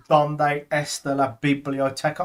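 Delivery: slow, careful learner's Spanish; Spanish textbook phrase. Shown as a demonstration. Telling Scott about the first phrases you learn, in slow learner Spanish. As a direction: read "Donde está la biblioteca?" like a first language lesson. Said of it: "I'm sorry about my accent".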